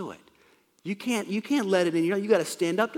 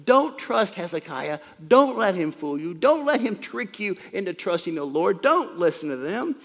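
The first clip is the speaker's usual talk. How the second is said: emphatic warning, moderately raised voice; half-yelled imitation of a haranguer; mild acted yelling; 4 dB louder than usual. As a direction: hit each DON'T like a warning to a crowd. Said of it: "He's yelling to the people".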